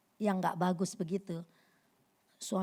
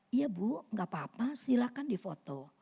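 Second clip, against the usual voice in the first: calm and unbothered; 6 dB quieter than usual. Retold or imitated. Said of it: "ekspresi yang biasa aja".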